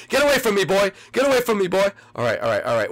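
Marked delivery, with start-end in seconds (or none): 0.1-0.9 high, loud shout to back off; yelling at a player. Real, not acted. Player chased by another player. 1.1-1.9 high, loud shout to back off; yelling at a player. Real, not acted. Player chased by another player.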